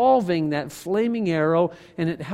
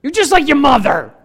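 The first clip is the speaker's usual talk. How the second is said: accusing spouse; 6 semitones higher, 5 dB louder than usual. Retold or imitated. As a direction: throw the line like an accusation. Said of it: "Or saying to someone".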